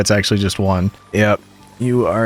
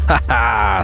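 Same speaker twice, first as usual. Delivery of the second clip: ordinary talk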